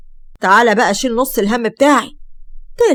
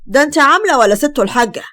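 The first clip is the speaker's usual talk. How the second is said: mocking, a bit raised and louder; fiancé mocking her outfit, sarcastic; 3 semitones higher, 3 dB louder than usual. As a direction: sneer at her clothes. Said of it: "قال سليم بسخرية".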